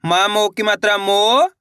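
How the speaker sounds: each letter sounded alone, held long; slow chant-like spelling with pauses between sounds; syllable-by-syllable reading. Shown as a demonstration. Teacher leading learners to repeat each letter, slow and separated. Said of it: "मेरे साथ साथ इनको repeat करना है".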